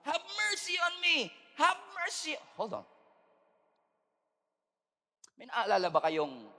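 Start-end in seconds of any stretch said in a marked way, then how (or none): 0.1-2.4 high, slow pleading cry; blind man's cry. Acted. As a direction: call out for mercy, desperate. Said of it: "sigaw siya ng sigaw".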